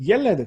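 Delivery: 옐레드 stressed on the opening 옐; stress on first syllable. Shown as a demonstration. Teacher showing singular accent, front stress on 옐 in 옐레드. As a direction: hit 옐 at the start of 옐레드. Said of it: "강세가 여기 있는데".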